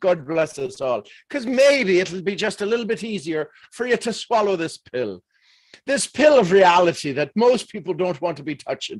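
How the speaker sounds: put-on Irish brogue. A speaker addressing the audience switches into an Irish accent. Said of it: "I'll give it to you in the Irish accent".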